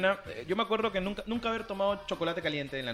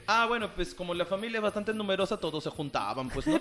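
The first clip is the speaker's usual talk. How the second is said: put-on Piura accent. Guest describes big Piura family gatherings, Piura accent. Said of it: "Todo el rato va a estar con el acento".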